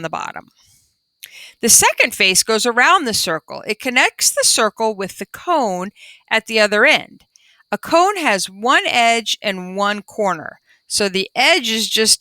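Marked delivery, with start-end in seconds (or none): 1.6-10.6 put-on reading to children. Reading the class book aloud.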